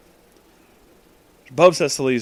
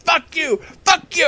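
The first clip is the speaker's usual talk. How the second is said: mock yell back. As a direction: imitate the boyfriend yelling back. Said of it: "they're just yelling back and forth".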